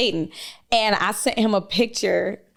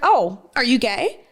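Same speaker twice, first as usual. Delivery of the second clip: higher, slower "oh, are you gay?"; not mean, innocent asking; 4 semitones higher, slower than usual. Retold or imitated. Asking someone about their partner, innocently, without meanness. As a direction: retell it as a harmless, drawn-out question. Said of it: "And not in a mean way or anything".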